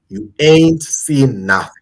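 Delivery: slow, drawn-out American accent; mock American movie-trailer line, slowed down; lightly put-on American accent. Shown as a demonstration. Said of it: "I'm using my American accent".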